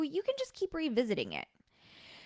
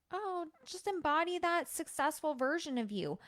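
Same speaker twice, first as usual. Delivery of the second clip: higher-pitched, glib imitation of advice; mock wishy-washy coach; 5 semitones higher than usual. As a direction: lightly parody a coach's vague advice. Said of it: "vague, wishy-washy stuff like".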